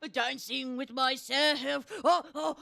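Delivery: delighted exclamation. Acted. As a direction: marvel at it slowly. Peach marvels, slow and loud.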